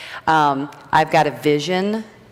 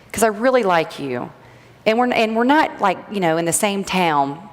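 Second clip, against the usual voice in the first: higher, bright-voiced mock friendly neighbor; a chirpy rival, voiced a bit higher; imitating the competitor; 6 semitones higher than usual. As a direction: put on the sweet-talking rival's voice, starting high. Voicing the competitor's friendly announcement.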